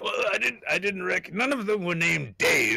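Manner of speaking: lightly acted, high baffled objection; mock protest. Mock witness in a quote.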